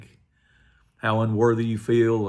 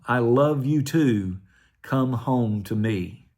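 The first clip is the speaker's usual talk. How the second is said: voice of the Lord; slower than usual. Retold or imitated. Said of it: "heard the voice of the Lord like thunder".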